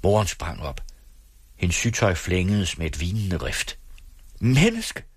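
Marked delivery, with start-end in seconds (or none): 4.4-5.0 high, drawn-out plaintive call; wailing cry. A narrator's reading. Mother protesting as the boy is hurt, wailing. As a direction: cry out in protest, pitch soaring. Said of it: "råbte hun klagende".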